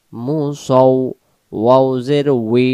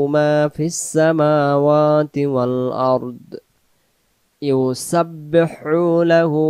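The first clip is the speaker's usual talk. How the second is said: slow melodic tajweed chant; Quran recitation; 2 semitones higher, slower than usual. Shown as a demonstration. Teacher chanting the verse for students, slow and melodic. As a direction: draw out each vowel in recitation.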